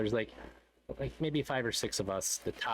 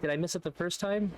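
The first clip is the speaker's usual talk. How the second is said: retold confusion; 7 semitones higher than usual. Retelling his confused double take.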